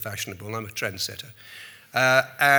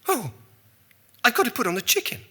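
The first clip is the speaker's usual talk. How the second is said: high, louder flustered Thatcher excuse; 12 semitones higher, 5 dB louder, faster than usual. Retold or imitated. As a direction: Thatcher escaping in a panicky fluster. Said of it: "and she said".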